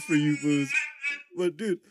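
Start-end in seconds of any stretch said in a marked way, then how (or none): none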